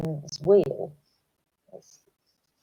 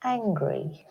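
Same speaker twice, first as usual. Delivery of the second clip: calmed naming; 5 dB quieter than usual. Shown as a demonstration. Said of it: "you will be calm".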